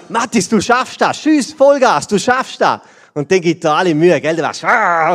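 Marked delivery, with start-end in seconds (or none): 0.1-2.8 put-on higher, eager call to his boy; encouraging cheer. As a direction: cheer him on to shoot hard. Dad cheering son at football.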